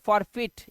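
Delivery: forfeit said "for-feet"; ee sound. Shown as a demonstration. Teacher asking which sound forfeit has, ee sound. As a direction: finish forfeit on a clear "feet". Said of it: "यहाँ पे ई की आवाज आ रही है".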